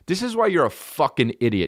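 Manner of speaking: high-pitched retold outburst; blood-red mad. Comic insulting his opener backstage, mock-mad and high. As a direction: act out losing patience, pitch jumping up. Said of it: "I got blood red mad".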